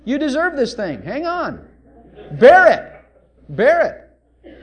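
mock pious rebuke; scolding crowd. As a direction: lecture the beggar he deserves it. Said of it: "they're telling him".

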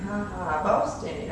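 mock-triumphant boast with a ha-ha. Shown as a demonstration. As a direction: crow playfully over your own weakness. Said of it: "when you notice and boast in your weaknesses".

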